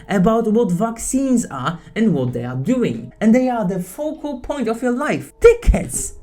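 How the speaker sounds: rising angry tirade, ending in a shouted insult; real frustration boiling over; angry rant. Real, not acted. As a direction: let the anger build to a yell. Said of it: "getting emotional and angry".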